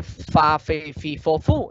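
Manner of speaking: "fa, fe, fi, fo, fu" sílaba por sílaba; repetición de sílabas. Shown as a demonstration. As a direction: recita "fa, fe, fi, fo, fu" como ejercicio. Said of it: "en repetición de sílabas". ("fa, fe, fi, fo, fu" separadas, con F clara)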